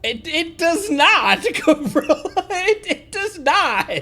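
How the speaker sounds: loud, high, drawn-out protest through laughter; laughing hard. Real, not acted. Streamer losing it at a ridiculous game moment, laughing hard. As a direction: crack up while insisting, stretching the words out. Cracking up at something on screen.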